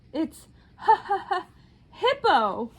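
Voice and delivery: high, loud laugh-crying; laughing so hard. A narrator's reading. Rhinoceros finally blurting his name while laughing. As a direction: squeeze the name out through laughter. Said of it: "gasped the rhinoceros".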